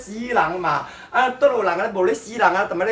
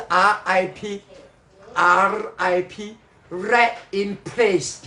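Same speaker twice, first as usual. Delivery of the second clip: slow spelled out; much slower than usual. Shown as a demonstration. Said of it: "要slang的".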